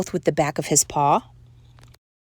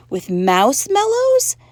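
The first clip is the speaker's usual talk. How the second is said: high, louder pleading question; begging; 9 semitones higher, 5 dB louder than usual. A narrator's reading. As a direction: beg like eager little girls. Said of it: "begged the girls".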